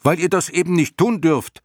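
high, loud retort; indignant shout. A narrator's reading. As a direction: shout it up as a scolding answer. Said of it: "schrie Bastian". (empört schreien, hoch und laut)

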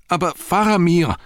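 high, loud desperate cry; urgent yell, pitched far up. A narrator's reading. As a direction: cry out in alarm. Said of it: "schrie Pippin".

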